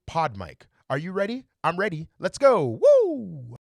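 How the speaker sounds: energetic host intro building to a cheer; hyped channel intro. Shown as a demonstration. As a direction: pump up the viewers like a show host. Channel intro announcer style.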